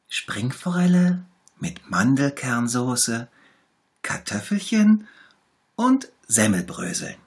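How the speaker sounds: high, pitiful little tiger voice; sick little tiger. A narrator's reading. Little tiger shows the bear where it hurts, high and pitiful. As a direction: whimper it, poor sick cub. Tiger names his favourite dish.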